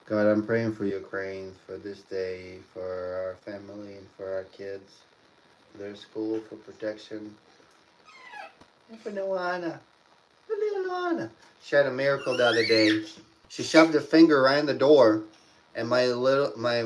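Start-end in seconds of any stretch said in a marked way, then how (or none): 0.1-11.3 prayer. Acted. Prays for family.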